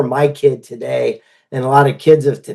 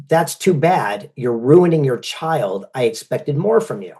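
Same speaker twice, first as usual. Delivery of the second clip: slow, lower, disapproving; slow stern scolding; 3 semitones lower, 3 dB quieter, slower than usual. Retold or imitated. Podcast host scolding him slowly about allowance. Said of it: "She goes".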